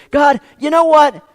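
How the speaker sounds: a desperate plea, yelled at the sky; loud cry of giving up, calling to God. Retold or imitated. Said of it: "we cry out to God and we say".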